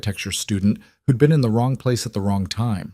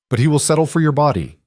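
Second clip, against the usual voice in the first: menacing threat; 6 semitones higher, faster than usual. Acted. Russian gunman threatens, raising rifle.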